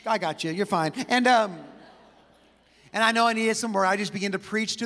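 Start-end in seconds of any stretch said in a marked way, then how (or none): 0.1-0.9 lower, lightly voiced reassurance; voice of heaven. Heaven looks down on a discouraged preacher, low mild reassurance. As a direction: imitate heaven calmly reassuring, pitched down. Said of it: "heaven looks down and says".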